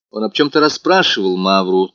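ordinary delivery, nothing marked

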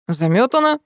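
mild shout. A narrator's reading. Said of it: "закричал грузчик".

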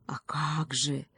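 slow, soft, stately reply; lightly regal, drawn-out and low-key; majestic eagle. A narrator's reading. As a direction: answer slowly with quiet grandeur. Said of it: "величественно прокликотал орёл".

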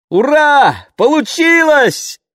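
high, thrilled cry of joy; excited exclamation. A narrator's reading. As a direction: exclaim it with delight. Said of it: "воскликнула она".

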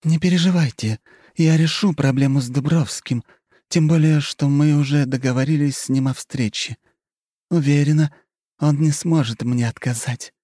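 high, playful flirting voice; coy countess. A narrator's reading. Countess flirts with the marquis, coy and playful. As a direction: toy with him, all innocence.

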